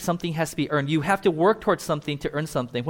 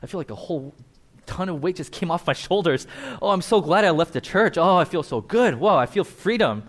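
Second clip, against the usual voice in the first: relieved and free. Retold or imitated. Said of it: "You're like".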